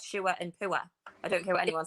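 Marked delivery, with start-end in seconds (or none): 0.0-0.4 "sure" said as shoo-er, two vowels gliding into an r; Northeast sure. Shown as a demonstration. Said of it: "where that is". 0.6-0.8 "poor" said as poo-er, two vowels, falling; Northeast poor. Shown as a demonstration. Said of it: "where that is".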